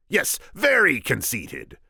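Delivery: slow, high, loud boast; slow self-satisfied Sicilian; smug Sicilian. Acted. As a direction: savour the boast slowly.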